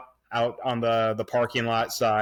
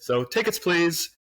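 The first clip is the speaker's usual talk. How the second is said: higher-pitched teacher catchphrase, lightly put on; Mister Kennedy's catchphrase; 7 semitones higher, slower than usual. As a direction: lightly mimic an old teacher's pet phrase. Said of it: "the phrases that he would say".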